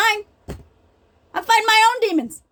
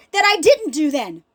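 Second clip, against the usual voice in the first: crying; 3 semitones lower than usual. Real, not acted. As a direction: voice breaking into real tears. Admitting past failures to her kids.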